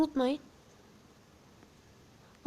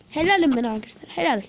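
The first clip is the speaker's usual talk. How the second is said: proud cheer; 7 dB louder, faster than usual. Real, not acted. Celebrating a win.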